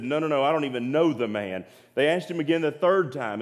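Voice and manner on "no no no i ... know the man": brisk, mildly insistent retold denial; quick denial. Peter denying knowing Jesus to an accuser, quick dismissive denial. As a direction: brush off the accusation in a quick run. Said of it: "And he said".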